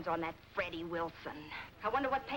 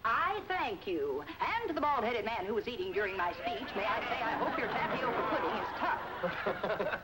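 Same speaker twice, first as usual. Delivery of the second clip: mock speech closing. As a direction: parody a pompous after-dinner speaker. Mocks Dad's club speech.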